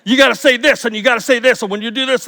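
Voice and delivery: lightly attempted Australian accent for a colleague; mock Australian accent, not fully committed. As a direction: put on a slight Australian accent. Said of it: "there was my Australian".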